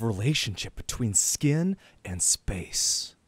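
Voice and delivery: very slow, savoring each word; slow, deliberate pronouncement; mock profound. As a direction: draw it out like a lofty art statement. Grandly quoting the artist's concept.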